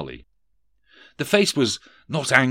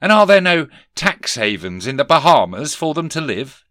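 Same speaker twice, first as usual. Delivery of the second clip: higher, louder pointed demand; 6 semitones higher, 8 dB louder than usual. Acted. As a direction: press the question hard. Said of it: "demanded Scrooge".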